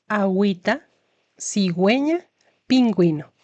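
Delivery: "agüita", "cigüeña", "pingüino" with the gw sound clearly heard; ü words read clearly. Shown as a demonstration. Teacher modelling ü words for the class. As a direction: stress the gw in each word. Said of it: "Se va a pronunciar".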